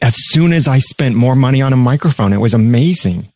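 deadpan sarcasm; dry, mock-earnest sarcasm; sarcastic. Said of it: "Sarcasm, people".

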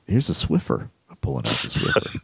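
sexy voice. Pretend. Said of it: "play-by-play in my sexy voice".

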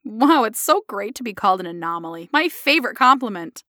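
mock-grateful gushing; sarcastic. Patient reacting to being called an anomaly, sarcastic. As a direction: pretend it's the best compliment, sarcastically.

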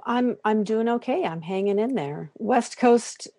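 rough early-morning throat; a bit hoarse, just woke up; throaty voice. Real, not acted. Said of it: "You can hear it in my throat".

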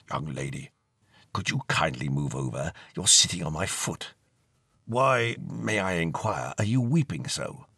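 put-on an old-fashioned ghost murmuring kindly into her ear; ghostly whisper. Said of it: "A voice whispered in her ear".

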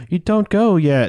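high, slow imploring imitation; mock plea. Tina asks Blackula not to leave, mock plea. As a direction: draw out a hammed-up appeal to stay.

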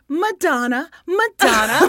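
high excited cry of the name. Real, not acted. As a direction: belt out the name with glee. Doing the arms, excited.

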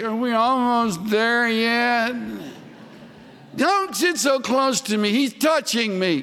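put-on children bickering on a long drive, high whine; whining kids. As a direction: mimic the children, high and whiny. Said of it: "they'd say".

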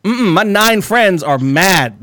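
high, slow drawn-out protest; mock whiny refusal. Teller refusing refund offer, high slow whine. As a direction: refuse like a sulking child.

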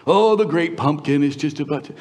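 brief mock jeer; teasing retold ridicule; imitated mocking. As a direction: lightly imitate a scoffer. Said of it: "they mock and they sneer".

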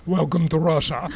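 lightly imitated Russian tour guide accent. Punchline of the guide's story, mock Russian accent. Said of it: "In his Russian accent".

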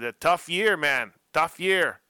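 mock French accent, loud and high; a bad French accent, drawn out slow. Podcast host imitating Sorby in a bad French accent. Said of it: "that's my best French accent".

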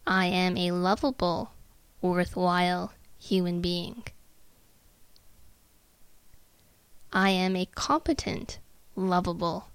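measured, word by word, with pauses; unhurried self-affirmation, evenly spaced; slow, deliberate affirmation. Shown as a demonstration. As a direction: recite it slowly to let it sink in. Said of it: "say that sentence slowly to yourself".

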